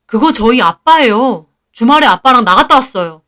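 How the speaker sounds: mildly exasperated, insistent denial; firm, slightly worked-up explanation; exasperated protest. Acted. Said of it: "환장할 것 같은 기분으로".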